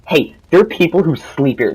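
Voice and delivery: mildly rude imitation of a complainer; not nice. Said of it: "she did not say this nicely".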